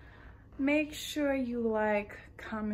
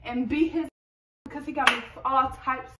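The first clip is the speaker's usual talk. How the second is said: put-on angry girl; 2 semitones higher, 4 dB louder than usual. Skit, angry about baby father.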